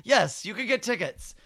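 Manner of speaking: high-pitched eager tickets offer, laughing through it; bubbling over to give her tickets. Retold or imitated. Comic offering tickets to Zoe Saldana, high and eager. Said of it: "And I go".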